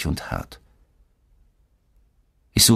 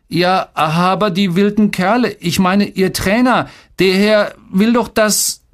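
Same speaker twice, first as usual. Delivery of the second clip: high-pitched, agitated protest; desperate kid's excuse, pitched way up; pleading boy; 11 semitones higher, 3 dB louder than usual. A narrator's reading. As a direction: plead your case in a high, stumbling voice. Boy pleads, gets cut off.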